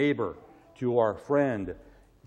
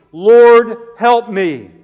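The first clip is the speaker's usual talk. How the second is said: much louder and higher desperate plea; pleading cry; 7 semitones higher, 15 dB louder, much slower than usual. Retold or imitated. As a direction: throw yourself at His feet and beg. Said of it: "and she pleaded".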